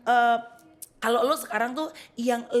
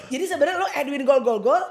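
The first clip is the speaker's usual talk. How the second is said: laughing; 4 semitones higher, 7 dB louder than usual. Real, not acted. Teasing about old stage name.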